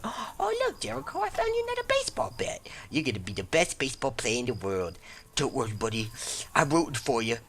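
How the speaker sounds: very high, fast cooing to a pet; doting sweet voice. Pretend. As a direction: coo like a proud doting friend. Voicing a doting companion character.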